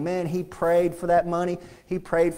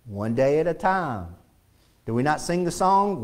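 usual speaking voice

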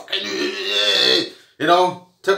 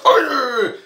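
headbutt yell; 5 semitones higher than usual. Acted. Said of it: "all of a sudden the neck muscle goes out".

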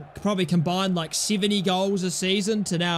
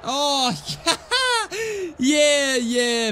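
exasperated laugh; 7 semitones higher, 3 dB louder, much slower than usual. Real, not acted. Laughing at another blunder.

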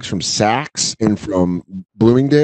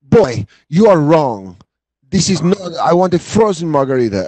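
demanding customer; 5 semitones higher than usual. Retold or imitated. Server imitating the woman refusing her drink, haughty. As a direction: lightly mimic an entitled diner insisting. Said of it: "And she's like".

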